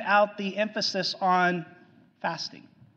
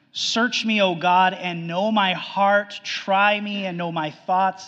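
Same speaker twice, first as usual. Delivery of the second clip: louder, proclaiming the psalm as a prayer; fervent scripture reading; 2 semitones higher, 6 dB louder than usual. Acted. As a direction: call it out to God with weight. Reciting Psalm 139 aloud.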